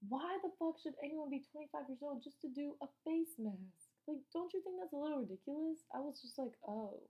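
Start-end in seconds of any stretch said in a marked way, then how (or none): 0.1-5.8 higher-pitched incredulous complaint; indignant. Real, not acted. Guest griping about the face mask age rule, indignant. 6.7-7.0 slow, softer grudging acceptance; retold attitude. Guest answering the spa worker about the age rule, mild attitude. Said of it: "I got an attitude with him".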